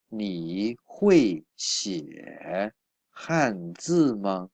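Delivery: very slow, each syllable separated; slow model reading. Shown as a demonstration. Teacher reading the example sentence to students, very slow. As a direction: spell it out slowly for learners. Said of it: "teacher models the sentence slowly".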